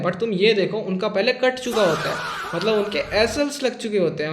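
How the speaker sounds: chuckles through the words; amused, laughing at the losers; laughing while explaining. Real, not acted. Teacher laughing about traders whose stop losses got hit, laughing.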